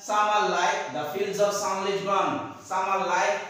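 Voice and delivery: line drawn out word by word; slow poem recitation. Shown as a demonstration. Teacher reading the corn simile to the class, slow recitation. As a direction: recite the verse very slowly. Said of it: "আর simile কোথায়".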